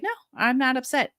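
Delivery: pretending not to be upset. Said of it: "doing that voice that you pretend".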